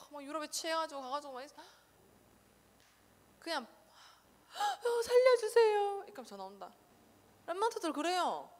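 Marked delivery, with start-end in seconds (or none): 3.7-6.0 high, wailing mock cry for help; mock crying plea. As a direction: whine like a helpless missionary. 겁먹은 선교사 흉내. (울먹이며 흉내 내는 구조 요청)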